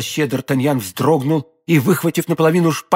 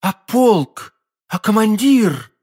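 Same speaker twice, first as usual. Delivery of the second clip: alarmed questions; 8 semitones higher, 3 dB louder, slower than usual. A narrator's reading. Alarmed questions after hearing he leaves.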